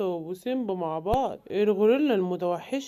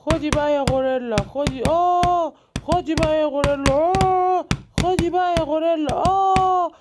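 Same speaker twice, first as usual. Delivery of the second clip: fight cries; 4 semitones higher, 3 dB louder than usual. Acted. Fighting the gorilla.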